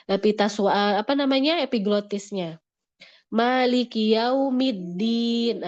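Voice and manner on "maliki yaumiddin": Maliki yaumiddin slow and careful; recitation demo. Shown as a demonstration. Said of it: "ini salah yang sering".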